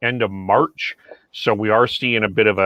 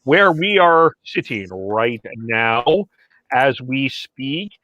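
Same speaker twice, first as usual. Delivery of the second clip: podcast intro. Acted. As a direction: announce the show, stretching out key words. Opens the show with the host's intro.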